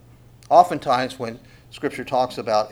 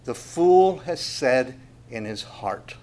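slow reading; slower than usual. Shown as a demonstration. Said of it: "So he starts off this way".

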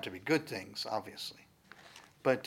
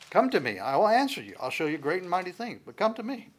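pleading call; 6 semitones higher, 5 dB louder than usual. Acted. Voicing God's invitation.

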